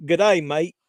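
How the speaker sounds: 1 mock Australian accent. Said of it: "he's gonna be like".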